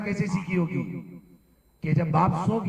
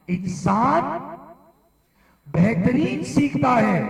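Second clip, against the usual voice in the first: raised, slow teacherly drilling with firm pauses; emphatic class drill; 6 semitones higher, slower than usual. Real, not acted. Teacher drilling the class in a key principle, emphatic. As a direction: drill the key line slowly, pitched up.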